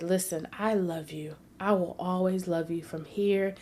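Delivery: tender reassurance. Retold or imitated. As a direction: gently reassure a grieving mother. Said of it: "I held her and I said".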